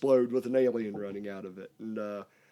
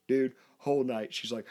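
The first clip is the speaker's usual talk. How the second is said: usual speaking voice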